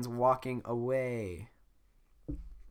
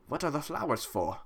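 put-on old guy voice; 4 semitones higher than usual. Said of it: "That sounded like an old guy".

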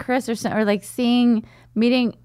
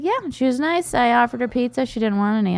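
mock dad voice; 5 semitones higher than usual. Dad quoted, high voice.

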